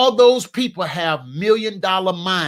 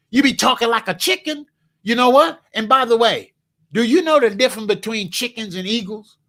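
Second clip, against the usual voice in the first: normal talking voice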